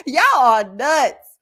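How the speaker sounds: slow words cut by laughter; laughing. Real, not acted. Teasing the viewers, laughing hard. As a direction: laugh through it.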